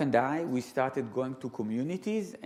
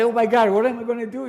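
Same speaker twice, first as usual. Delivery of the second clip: mock panic; 8 semitones higher, 10 dB louder, faster than usual. Speaker panics retold.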